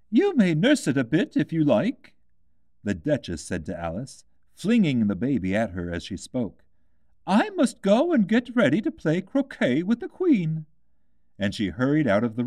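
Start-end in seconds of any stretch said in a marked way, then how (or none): 0.1-2.1 a hint of a careless duchess; lightly voiced Duchess, careless. A narrator's reading. The Duchess flings the baby to Alice, lightly voiced and careless. 7.3-10.6 high, lofty duchess voice; haughty Duchess in a hurry. A narrator's reading. The Duchess leaves for croquet with the Queen, high and lofty.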